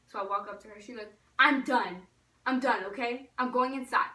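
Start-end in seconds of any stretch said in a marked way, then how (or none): 1.4-4.1 acted fed-up declaration. Friend quits chasing the dog.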